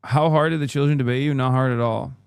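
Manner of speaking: a quick, light put-on Irish accent; playful mock Irish accent. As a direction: do a jokey Irish lilt, a bit rushed. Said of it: "My, my Irish accent".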